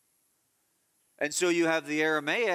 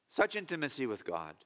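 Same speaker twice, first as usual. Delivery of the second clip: tender repeat. Real, not acted. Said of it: "that you would have such intimacy with God".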